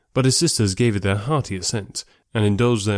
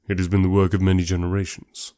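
reserved gentleman; 3 semitones lower than usual. Acted. Darcy's reply voiced low.

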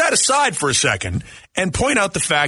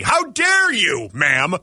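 mock indignation; much slower than usual. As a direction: scold her in theatrical outrage. Mock scolding of a singer.

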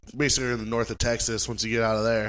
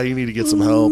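mock reply; 13 semitones higher, 5 dB louder than usual. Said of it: "they kind of just were like".

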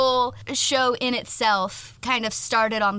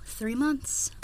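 snotty crying; 4 semitones higher, 8 dB quieter than usual. Real, not acted. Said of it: "I'm crying".

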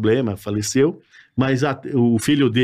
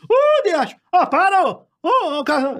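Batoré impression; 14 semitones higher than usual. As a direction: imitate the comedian's call. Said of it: "Você imitava ele?". (imitação aguda do Batoré)

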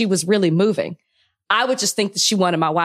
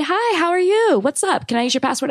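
higher, bright mock-cheery greeting; fake friendly; 7 semitones higher than usual. Cohost imitating a neighbor at the door, mock-cheery. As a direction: put on a sugary neighborly welcome. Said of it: "been super friendly".

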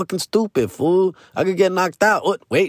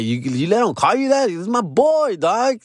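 guy's reply; 11 semitones higher than usual. Retold or imitated. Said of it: "the guy's like".

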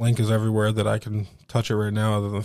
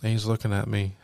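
ordinary talk, nothing marked

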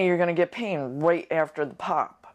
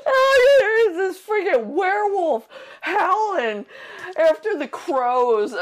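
stifled giggles; 11 semitones higher, 4 dB louder than usual. Real, not acted. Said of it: "I'm trying not to laugh".

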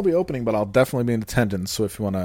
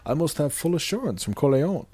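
Godfather impression; 3 semitones higher than usual. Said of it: "Come on, The Godfather".

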